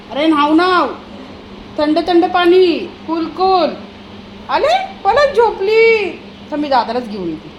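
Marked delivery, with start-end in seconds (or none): 0.1-6.1 put-on high, loud sing-song baby talk. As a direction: croon to the dog, much higher. (उंच, मोठ्या आवाजात लाडिक गाणे)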